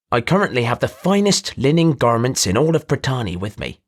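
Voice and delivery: a showy trader pinching his voice through the nose; nasally voice. Acted. Merchant speaking at length.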